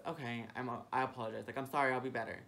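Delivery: meek apology. Retold or imitated. Retelling to the manager, a sheepish apology. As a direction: sheepishly promise to do better. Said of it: "all I said was".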